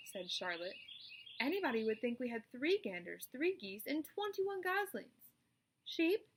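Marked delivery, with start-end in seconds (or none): 1.4-5.3 rising, slowing to high on goslings; wry spider. Acted. Charlotte remarks on the noisy meeting, wry. 5.9-6.3 high loud call; calling roll. Acted. Charlotte calls the sheep.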